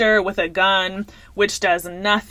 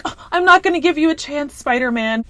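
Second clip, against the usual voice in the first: higher, quick mock of a snooty girl; mocking her; 6 semitones higher than usual. Mocking the girl who turns down Spider-Man, in a higher snooty voice. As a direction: sneer it like a dismissive girl. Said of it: "Who meets Spider-Man and is like".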